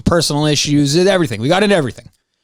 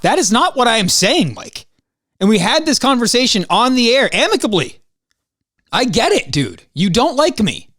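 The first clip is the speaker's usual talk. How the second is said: frustrated rant; 6 semitones higher than usual. Real, not acted. Heated rant about co-host Mike.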